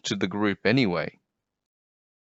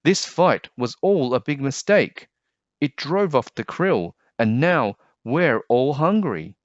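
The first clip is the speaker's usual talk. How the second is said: earnest plea; 5 semitones higher than usual. Acted. Rainbow Fish pleads with whale.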